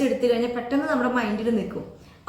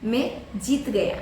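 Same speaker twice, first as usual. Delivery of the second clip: slow, clear model sentence; "മേ ജീത് ഗയ" said very slowly, word by word; slow teaching demo; 2 semitones lower, much slower than usual. Shown as a demonstration. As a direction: spell it out slowly for learners. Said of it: "എന്നെങ്ങനെയാ പറയാ?".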